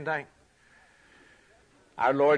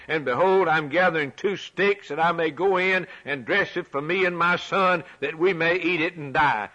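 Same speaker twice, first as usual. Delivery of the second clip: desperate widow; 4 semitones higher, 3 dB louder than usual. Acted. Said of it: "And she said".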